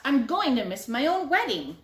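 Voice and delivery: loud panicked yelling; frantic late groom-guest yelling. A narrator's reading. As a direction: shout it, running late and lost. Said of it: "he was yelling".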